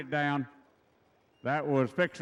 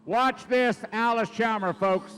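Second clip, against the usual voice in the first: excited; 4 semitones higher, 4 dB louder than usual. Real, not acted. Calling attention to next run.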